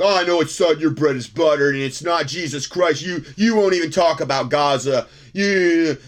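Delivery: lightly mocking take on an irate letter-writer; imitating angry emailer. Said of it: "I had a guy email this week".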